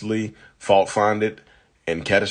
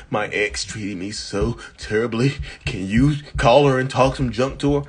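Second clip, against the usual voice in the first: acting as new girlfriend; 4 semitones higher than usual. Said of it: "you're acting and cracking me up".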